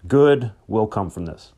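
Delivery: P=A; slow emphatic promise. Shown as a demonstration. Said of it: "remember this".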